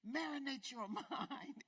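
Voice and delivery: breaks into a laugh mid-line. Real, not acted. Preacher laughs at her own phrase, laughing. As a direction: let the laugh spill in.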